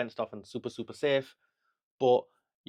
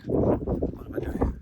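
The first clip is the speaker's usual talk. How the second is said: scared whisper; 3 dB louder, slower than usual. Real, not acted. Terrified at the top of a cliff.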